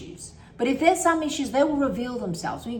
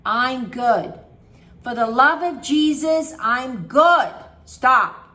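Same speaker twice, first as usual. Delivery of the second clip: louder "I'm good" bursts; fending off thoughts; 5 dB louder than usual. Shown as a demonstration. Coach demonstrating fighting off a bad thought, loud. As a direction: shove the thought away loudly. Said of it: "Kinda like that".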